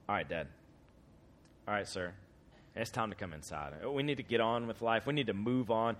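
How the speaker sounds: put-on hushed, gentle coaxing of an old father; quiet pleading son; soft coaxing. Son coaxing dad inside.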